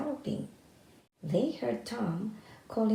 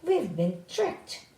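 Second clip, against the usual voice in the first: slow, loud, higher angry outburst; 5 semitones higher, 4 dB louder, slower than usual. A narrator's reading. The thieves angrily realizing Tom has tricked them. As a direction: spit it out, furious at being fooled. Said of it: "they said angrily".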